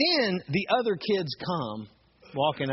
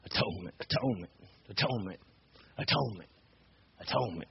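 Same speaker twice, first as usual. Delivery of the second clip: musing repetition; 3 semitones lower, 6 dB quieter, faster than usual. Retold or imitated. Man puzzles over word, repeating it.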